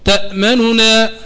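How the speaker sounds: ما لك لا تأمننا very slow with the nun's vowel only hinted; rawm recitation. Shown as a demonstration. Teacher recites the verse to demonstrate rawm, very slow. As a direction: recite تأمننا barely touching the damma on the nun. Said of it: "اسمع الروم".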